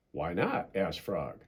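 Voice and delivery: gentle bedtime storybook reading; storybook narration; reading to children. A narrator's reading. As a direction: read it like a bedtime story for kids. Reads a children's story aloud.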